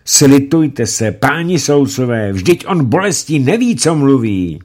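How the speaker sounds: mother screaming to the judges for mercy; screaming plea. Acted. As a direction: beg for mercy for her son. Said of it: "Setkin křičela".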